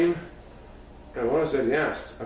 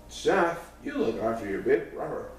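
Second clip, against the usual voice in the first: calling out. Acted. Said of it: "she called down".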